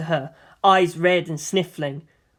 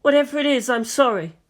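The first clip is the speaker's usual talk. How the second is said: tearful apology; 6 semitones higher than usual. A narrator's reading. Crying boy apologises.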